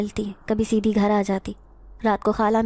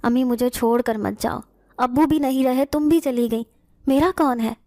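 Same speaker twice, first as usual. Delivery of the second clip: wailing plea; 2 semitones higher than usual. Acted. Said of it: "میں دھاڑے مار کر رو رہی تھی".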